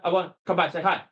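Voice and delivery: very fast imitated pickup line; choppy, fast talking. Coach acts out a man repeating himself to a woman, rushed. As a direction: rattle it off like a nervous approach. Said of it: "because you're talking very fast".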